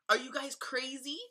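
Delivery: high-pitched indignant tirade; outraged rant. Retold or imitated. Mother berating staff over the diaper change, outraged rant.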